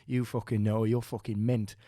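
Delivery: imitated Geordie-ish compliment; Northern English accent. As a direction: do a Geordie or Northern bloke praising someone. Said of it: "he had, like, a Geordie accent or a Northern accent".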